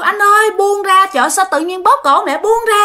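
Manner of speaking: high-pitched urgent cry, acted out; la can ngăn. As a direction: plead with the husband to let go. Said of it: "Mẹ la quá trời la". (giọng vợ la lên can chồng, cao và gấp)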